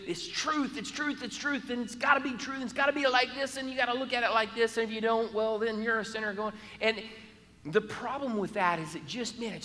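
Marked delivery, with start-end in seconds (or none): 0.1-6.5 a hint of a preachy rule-keeper, higher; mock hardliner. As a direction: lightly mimic someone insisting on truth. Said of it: "they come across with".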